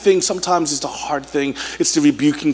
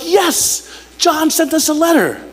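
high, elated church member's cheer; eager excitement; 10 semitones higher, slower than usual. Acted. Church members getting John's letter at last, excited. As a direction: celebrate it with a lifted, eager voice. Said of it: "after eagerly waiting to hear from him".

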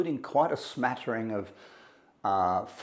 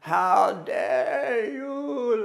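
much higher, very slow, breaking into a cry; anguished crying outcry; 11 semitones higher, 4 dB louder, much slower than usual. Retold or imitated. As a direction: wail it out, grief turning to accusation. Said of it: "like that".

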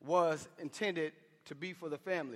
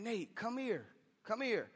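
higher-pitched, unshouted call to his son; pleading call; 4 semitones higher, 3 dB quieter than usual. Retold or imitated. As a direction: call him in, voice raised in pitch only. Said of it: "and I'm saying".

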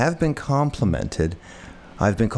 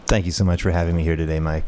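radio voice; 5 semitones lower, faster than usual. Real, not acted. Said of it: "you have such a great radio voice".

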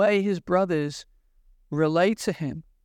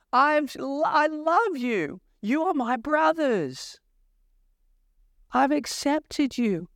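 higher, pleading voice of a wounded brother; heartbroken Joseph; 3 semitones higher than usual. Retold or imitated. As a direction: plead as a hurt, loving brother. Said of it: "He's like".

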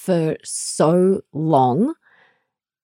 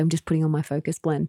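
fast, soft, deadpan aside; dead serious mutter; 7 dB quieter, much faster than usual. Retold or imitated. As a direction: say it quickly under your breath, dead serious. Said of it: "dead serious".

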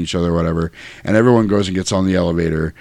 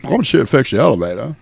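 Dennis Hopper; 7 semitones higher than usual. Retold or imitated. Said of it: "He's like".

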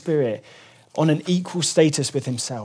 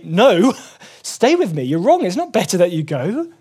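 protesting disciple; 3 semitones higher than usual. Retold or imitated. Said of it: "I'd say".

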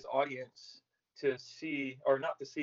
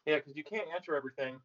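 talking around a mouthful of ice. Real, not acted. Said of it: "Sorry, I got ice in my mouth".

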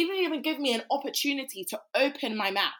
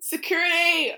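calling security; 3 semitones higher, 4 dB louder, slower than usual. Retold or imitated.

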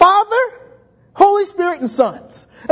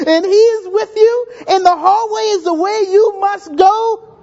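louder and higher, tearful edge; voice breaking; 4 semitones higher, 3 dB louder than usual. Real, not acted. Preacher to congregation, voice cracking with emotion. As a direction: preach through rising tears.

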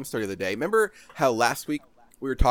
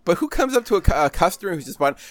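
incredulous rant; 6 semitones higher than usual. Real, not acted. Ranting about the judgy clerk.

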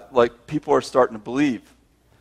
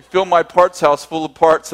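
louder, pushing the deal hard; eager shout; 3 semitones higher, 5 dB louder than usual. Retold or imitated. Pitching the watch swap to the supplier, eager shout. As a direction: shout the offer like a street pitch.

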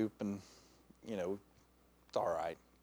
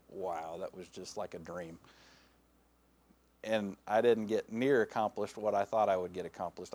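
low, soft, musing to oneself; acted quiet disappointment, voice dropped low; wistful regret; 7 semitones lower, 5 dB quieter than usual. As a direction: look back in hushed, mild regret. Imagined regret in eternity.

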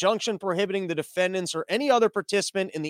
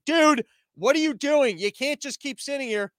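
higher, half-shouted scolding of a truck; mock yelling; 7 semitones higher than usual. Trucker scolds his own idle truck, higher mock yell. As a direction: chew out the truck like a fed-up buddy.

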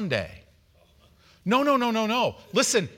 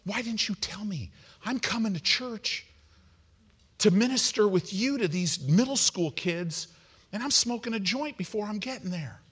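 upset friend, imitated; 4 semitones higher than usual. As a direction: imitate a friend's hurt protest. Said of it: "she, she was upset".

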